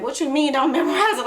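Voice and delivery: lightly voiced students, surprised and objecting; mock disbelief. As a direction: push back in mock disbelief. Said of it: "everybody used to be like".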